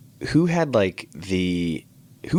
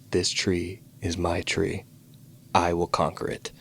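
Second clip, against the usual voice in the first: retold solemn vow; 4 dB quieter than usual. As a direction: vow it with understated gravity.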